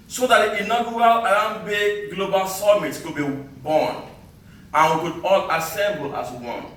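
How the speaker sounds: measured spoken-word delivery with deliberate pauses; poem recital. Acted. Poet to summit crowd recalling the long trek, declaimed poem recital. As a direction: declaim it line by line to an audience.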